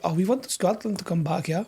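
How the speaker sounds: imitating a German accent; light mock German voice. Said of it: "That wasn't a South African accent".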